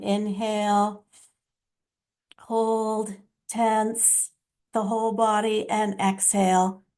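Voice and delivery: measured meditation guide with long pauses; guided breathing. Real, not acted. Guide leading listeners to inhale, hold and exhale, measured guided breathing. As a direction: talk them steadily through each breath.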